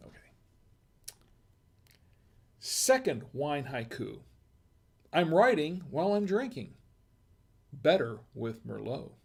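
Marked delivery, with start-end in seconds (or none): 2.6-9.1 haiku recital. Shown as a demonstration. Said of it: "Okay, here goes".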